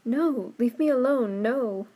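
loud, high, horrified protest; shrieking. A narrator's reading. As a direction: drive them away with panicked cries. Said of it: "she sh-, shrieked".

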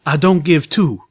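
talking around a gun in his mouth; muffled and loud, mouth full; muffled mumble. A narrator's reading. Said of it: "his voice muffled and slightly mumbling".

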